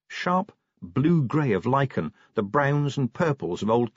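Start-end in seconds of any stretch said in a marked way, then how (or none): none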